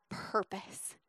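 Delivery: whispered "purpose" to end the prayer; soft, reverent whisper; hushed plea. Acted. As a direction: let the last word fall to a whisper. Key word whispered in acted plea.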